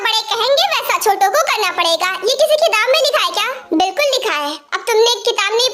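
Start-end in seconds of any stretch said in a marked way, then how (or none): 2.3-3.5 quick, higher mocking challenge; sarcastic retort. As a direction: fire it back fast, scoffing. Sister's sarcastic retort in a quarrel. (तेज़, ऊँची, ताना मारती आवाज़)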